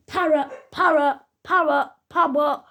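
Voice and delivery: squawky mimic of a parrot. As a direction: repeat it like a parrot would. Imitating a parrot saying power.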